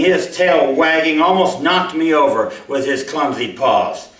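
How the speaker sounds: measured storytelling read aloud; story narration. A narrator's reading. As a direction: read your story to the listeners, letting scenes breathe. Author reads his short story.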